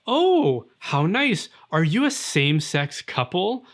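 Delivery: lightly voiced gushing waiter, leaping high on "Oh"; chirpy server voice. Server greeting two friends at lunch, mock chirpy. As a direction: play a too-sweet server, lightly. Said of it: "they ask you".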